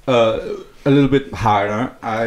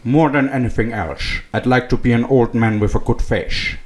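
Sean Connery voice; 3 semitones lower than usual. Acted. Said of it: "in a really shitty Sean Connery voice".

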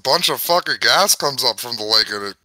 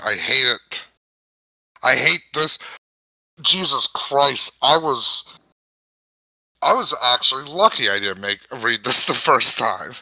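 usual speaking voice

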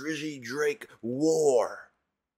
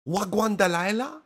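high mocking repeat of the hook; 9 semitones higher, 6 dB louder than usual. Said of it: "mocking the hook".

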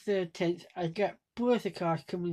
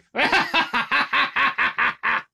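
demonstrated laugh; 4 semitones higher, 6 dB louder than usual. Shown as a demonstration. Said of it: "if you read either one".

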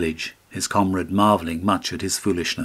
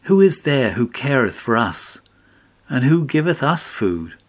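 angry cry; 4 semitones higher, 4 dB louder than usual. Acted. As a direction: let the wife cry out at him in anger. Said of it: "and spoke angrily, and cried".

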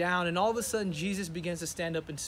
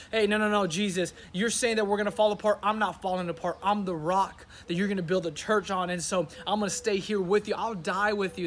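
a touch louder Peter insisting; Peter protesting; 3 dB louder than usual. Acted. Peter refusing to accept Jesus's words, insistent. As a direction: press the point like a loyal friend.

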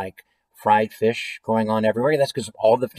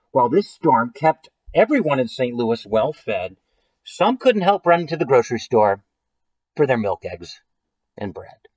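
deliberate read-aloud, pausing between phrases; story narration. A narrator's reading. Reading a silly food-storm story to listeners, story narration. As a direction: read it out, letting the ending drop away. Reads a picture book aloud.

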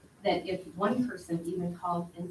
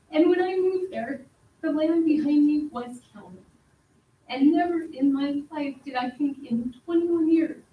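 higher and louder, fighting back tears; emotional; 4 semitones higher, 5 dB louder than usual. Real, not acted. Resident pleading with the council, emotional, higher and louder. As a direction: let it well up as you plead to stay. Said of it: "Sorry, I'm gonna be emotional".

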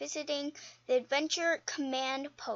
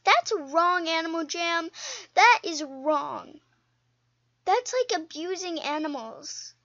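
indignant; 6 dB louder than usual. Real, not acted. Outraged at pet trading.

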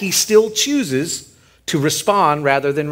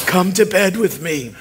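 laughing mock seduction; 2 semitones higher than usual. Quoting Potiphar's wife with laugh.

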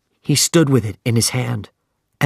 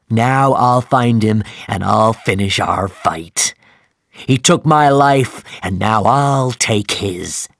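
grim threat; 4 dB louder than usual. Acted. Ahab threatens crew with harpoon.

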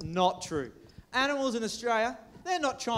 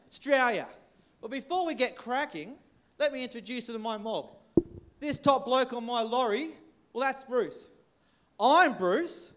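slightly hammed-up Australian accent; intense Aussie English. Host greeting the crowd, playfully exaggerated Australian accent. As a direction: lay on the Aussie slang and accent. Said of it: "We don't really talk like that".

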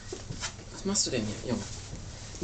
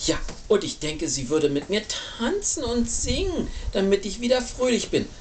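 lightly voiced eager chick, pitch climbing; little bird character. Little bird wishes in story.

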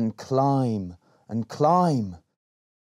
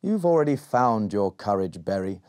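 kind wise lizard. Acted.

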